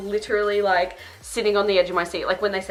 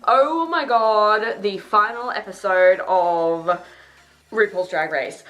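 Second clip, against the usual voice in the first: gushing; 7 dB louder, slower than usual. Real, not acted. Gushing about Drag Race finale.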